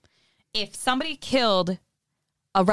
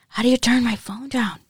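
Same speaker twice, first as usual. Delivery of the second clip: louder; 4 semitones higher, 4 dB louder than usual. Real, not acted. Repeats louder.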